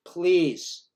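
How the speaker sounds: an urgent mock plea; loud plea. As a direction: beg him to stop, loud. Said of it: "So I go to the guy".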